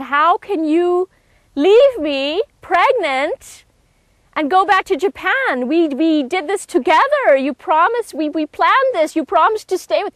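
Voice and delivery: desperate pleading. Retold or imitated. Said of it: "I said".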